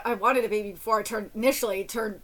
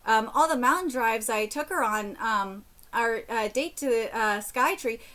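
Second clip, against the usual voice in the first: story narration. Acted. Reading a Reddit story aloud.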